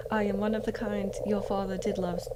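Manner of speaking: put-on British-accented crow demon; lightly British-accented, formal introduction; Malphas. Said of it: "I'm not giving him a British accent".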